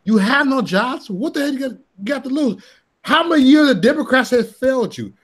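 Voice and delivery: Trump-style stump speech, played up for laughs; quoting Trump. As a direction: ham up Trump working the crowd. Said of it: "Then Trump came down here and said".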